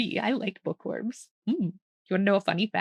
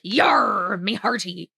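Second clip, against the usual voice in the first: playful pirate; 7 dB louder, slower than usual. Pretend. Bear is a pirate.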